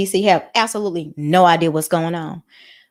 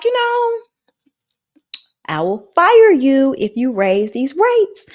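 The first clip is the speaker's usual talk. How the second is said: threatening Trump impression; 5 semitones higher, slower than usual. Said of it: "Kinda threatened him and was like".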